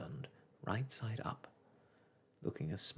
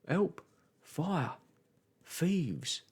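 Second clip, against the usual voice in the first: loud, high alarm calls; calling for help; 6 semitones higher, 4 dB louder, much slower than usual. A narrator's reading. Postman crying out as he is spun, loud alarm. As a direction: shout it out in mock alarm.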